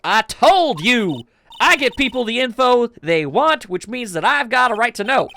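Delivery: put-on pushy reporter with a light Southern accent. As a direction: insist on it with a Southern twang. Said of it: "That southern accent can only mean".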